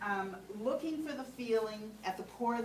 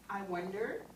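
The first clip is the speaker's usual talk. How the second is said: tentative. Shown as a demonstration. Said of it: "you always say it tentatively".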